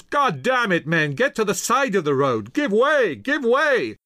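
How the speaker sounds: high, loud furious shouting; spitting mad. A narrator's reading. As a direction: yell at soldiers blocking your way. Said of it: "Knox was red-faced and spitting mad".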